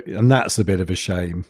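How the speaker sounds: demonstrating a very restrained grumble; understated annoyance. Shown as a demonstration. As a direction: mildly put out, barely showing it. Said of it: "when I'm, like, really annoyed with something".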